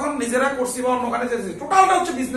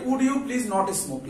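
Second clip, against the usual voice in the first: slow dictation; 3 semitones lower, 3 dB quieter, much slower than usual. Shown as a demonstration. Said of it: "সবাই একটু খেয়াল করো".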